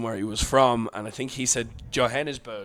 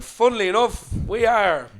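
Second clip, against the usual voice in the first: louder, higher sheepish boast; mock proud admission; 8 semitones higher, 7 dB louder than usual. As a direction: admit it with a grin.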